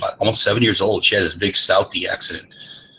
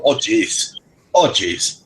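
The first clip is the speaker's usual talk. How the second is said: put-on Minnesota accent; much slower than usual. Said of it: "that's Wisconsin, Minnesota".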